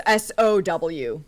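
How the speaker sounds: letters spaced apart one by one; spelled out slowly. Shown as a demonstration. Host spells the title letter by letter slowly. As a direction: spell it out slow for listeners. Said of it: "Um, S".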